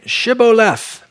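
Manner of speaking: slow, drawn-out "Shibboleth", opening on a full sh; correct sh sound. Acted. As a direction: say "Shibboleth" with a clear SH at the start. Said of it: "He couldn't pronounce his S H's".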